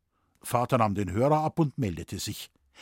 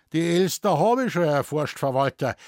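grinsend; 4 semitones higher, 5 dB louder than usual. Acted. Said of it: "grinste Moosbichler".

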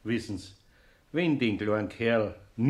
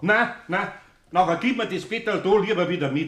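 louder, higher alarmed objection; upset protest; 4 semitones higher, 5 dB louder than usual. Acted. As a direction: Eder pleading to get the little bed back, louder. Eder protests the mousetrap plan.

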